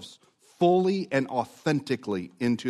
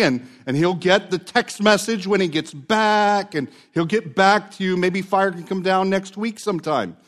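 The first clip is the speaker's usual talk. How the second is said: mocking; 5 semitones higher than usual. Elijah taunting the prophets of Baal, higher mocking jeer. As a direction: taunt them like a sarcastic friend. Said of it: "so Elijah mocks them".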